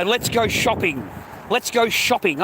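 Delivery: sing-song imitation of an eager shopper; a teasing take on the wife begging to shop; mock wife. Mimicking wife, excited.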